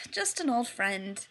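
soft, slow reassuring tone; calm him down gently. Acted. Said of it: "John reassured him".

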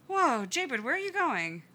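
alarmed. A narrator's reading. Brother restraining struggling boy.

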